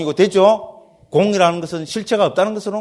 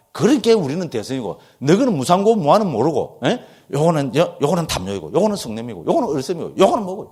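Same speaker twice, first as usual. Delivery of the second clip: mock boasting critic. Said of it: "왜 소성이라고 깠는가 하면은요".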